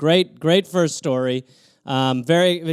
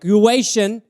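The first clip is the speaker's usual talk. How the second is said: mock retort; 4 dB louder, slower than usual. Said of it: "You're like".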